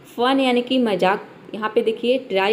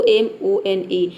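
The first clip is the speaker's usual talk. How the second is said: letters "एम O एन ई" spelled out one by one, slowly; teacher spelling a word letter by letter; 3 semitones lower, much slower than usual. Shown as a demonstration. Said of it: "यहाँ पे केवल है S O".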